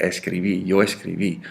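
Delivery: "escribí" stressed on its last syllable; stress on final I. Shown as a demonstration. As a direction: make the final í of "escribí" felt. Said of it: "You gotta feel it".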